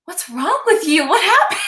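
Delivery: high-pitched, baffled mock alarm; imitated husband. Husband asking his crying wife, imitated alarm. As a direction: ask it as a put-on, bewildered spouse. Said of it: "my husband's like".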